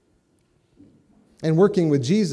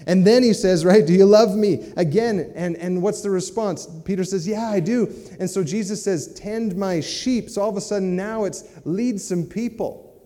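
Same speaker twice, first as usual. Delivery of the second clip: raised, higher, louder preaching voice; fervent preaching; 5 semitones higher, 4 dB louder than usual. Real, not acted. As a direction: preach it out with rising fervor. Preaching Peter's restoration with fervor.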